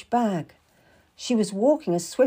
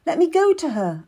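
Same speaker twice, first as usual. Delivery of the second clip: higher, urgent pleading; anxious cry; 7 semitones higher, 3 dB louder than usual. A narrator's reading. Girl begs Mistress Stab to see the Queen, urgent cry. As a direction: plead to be let through, voice lifted. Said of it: "I cried".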